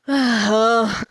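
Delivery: mock yawning groan; drawn-out yawn sound; imitated yawn groan. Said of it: "and then for his yawn, he's like".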